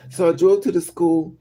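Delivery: ordinary delivery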